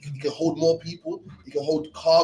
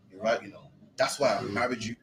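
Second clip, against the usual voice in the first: a grateful husband giving in gently, only lightly acted; husband conceding. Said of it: "even your husband will go".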